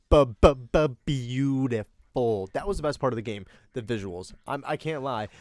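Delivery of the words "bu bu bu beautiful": stammered, very slow beautiful; awestruck stammer. Acted. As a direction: stammer it out in awe. Overcome by visuals.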